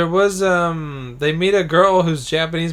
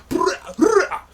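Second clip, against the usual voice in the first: mock boyfriend voice; 3 dB louder than usual. Boyfriend character barging in.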